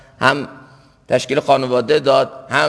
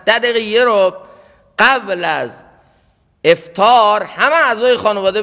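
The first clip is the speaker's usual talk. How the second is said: raised, higher-pitched sermon voice; impassioned preaching; 8 semitones higher, 3 dB louder than usual. Real, not acted. Preacher urging families to pray before iftar, impassioned. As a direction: exhort the congregation with lifted voice.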